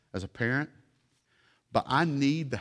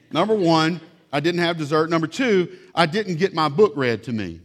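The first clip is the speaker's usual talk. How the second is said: louder, higher hammed-up sulky kid; mock whiny child; 4 semitones higher, 7 dB louder than usual. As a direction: whine it like a kid denied dessert. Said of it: "Let me read you a letter".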